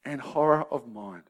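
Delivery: slow, measured solemn reading; reading a quote. Shown as a demonstration. Preacher quoting Burton on the depressed, slow and solemn. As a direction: read the old words gravely and slowly. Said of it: "He says".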